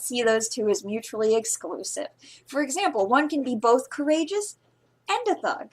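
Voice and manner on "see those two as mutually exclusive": loud, brash answer to the lady; bold hero reply. Acted. The ruffian hero answering the queen, loud and cheeky. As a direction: proclaim it cheekily to royalty.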